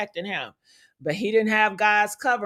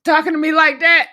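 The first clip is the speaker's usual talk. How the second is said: mock angry comeback; 6 dB louder than usual. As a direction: pretend to tell Charlie off, blowing up at the end. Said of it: "man, I'd be like".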